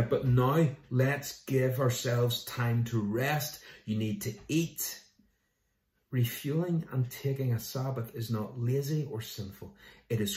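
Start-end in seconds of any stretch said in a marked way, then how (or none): 0.0-5.0 slow, caring invitation to rest; gentle urging. Acted. Jesus telling tired apostles to rest and eat, slow and gentle. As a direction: ease them down kindly, slowly.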